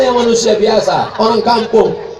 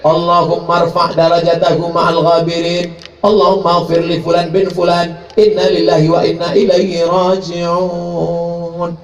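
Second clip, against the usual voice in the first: slow recited Arabic prayer; 2 semitones lower, slower than usual. Acted. Imam praying over the body, slow recitation.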